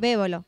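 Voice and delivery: Bébolo stressed on its first syllable; accent on the E. Shown as a demonstration. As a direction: land on BÉ in Bébolo. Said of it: "con acento en la E".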